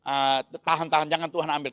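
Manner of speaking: a father begging God not to take his son; desperate plea. Retold or imitated. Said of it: "Kira-kira gitu".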